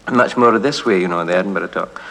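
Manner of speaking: Scottish Edinburgh talk; Edinburgh accent. Shown as a demonstration. Voice man demonstrates Edinburgh talk in that Scottish accent. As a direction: speak it the Edinburgh way. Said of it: "there's an Edinburgh accent".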